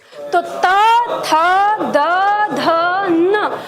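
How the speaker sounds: त थ द ध न spoken one at a time, tongue touching the teeth, with a pause between; dental consonant demo. Shown as a demonstration. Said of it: "फिर उसके बाद दांत से". (दांत से त थ द ध न अलग-अलग बोलकर दिखाना)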